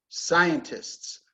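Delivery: "Scientists" with the first syllable stressed, falling after. Shown as a demonstration. Teacher models a difficult word, stress on the first syllable. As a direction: lean on the SCI of "Scientists". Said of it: "Stress on the first syllable".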